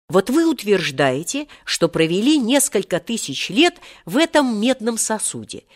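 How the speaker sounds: trembling voice. A narrator's reading. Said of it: "произнёс тогда Серёжа дрожащим голосом". (дрожащим голосом)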